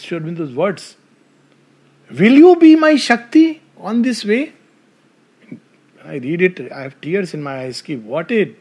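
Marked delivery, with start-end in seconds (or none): 2.1-4.5 higher and louder, pleading; husband's ardent plea to his wife, higher and louder; impassioned appeal. Acted. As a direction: lift the question like a heartfelt plea.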